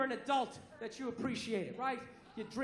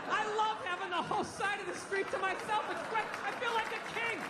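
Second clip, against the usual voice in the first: higher, giddy bragging; gushing; 6 semitones higher than usual. Real, not acted. Comic bragging to the crowd about walking a pit bull, higher and giddy.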